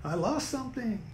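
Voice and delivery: hint of a New York Jewish accent; a light, playful New York Jewish accent. Shown as a demonstration. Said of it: "I'm starting to talk with a Jewish accent".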